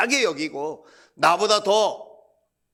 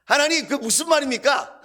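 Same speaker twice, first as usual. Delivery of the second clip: high-pitched protest to God; retold indignant appeal, pitch jumping up; pleading complaint; 8 semitones higher than usual. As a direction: protest in disbelief. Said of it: "하나님 앞에 제가 하소연하는".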